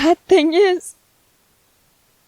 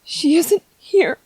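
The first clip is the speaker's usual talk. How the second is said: tender sadness; 4 dB quieter than usual. Acted. Softly telling baby mommy's gone.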